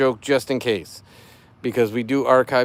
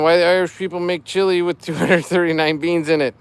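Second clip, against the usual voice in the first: higher, louder corny punchline; dad joke voice; 5 semitones higher, 6 dB louder than usual. Acted. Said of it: "I'm doing it in dad joke voice".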